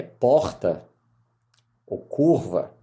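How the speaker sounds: Mineiro accent on "porta" and "curva"; native Mineiro accent. Shown as a demonstration. Mineiro lawyer showing his own speech, Mineiro accent. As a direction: say "porta" and "curva" with a Belo Horizonte r. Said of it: "eu tenho que mudar meu sotaque".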